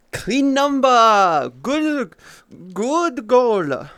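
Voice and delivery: loud, high, slow cheer; cheering the chat reaching one eighty; excited cheer. Real, not acted. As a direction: belt out a stretched celebration. Celebrating a round number.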